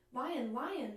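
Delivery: little bird calling out in surprise; astonished bird. Acted. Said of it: "the bird chirped, astonished".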